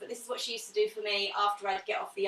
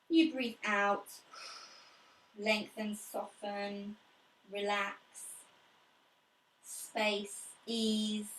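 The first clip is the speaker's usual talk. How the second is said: guided breathing; slower than usual. Acted.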